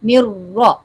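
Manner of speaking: "را" held on the r and said thick; heavy Ra. Shown as a demonstration. Teacher introduces the next sound, heavy "را". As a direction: join into a full, heavy "را". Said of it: "را کو موٹا کریں".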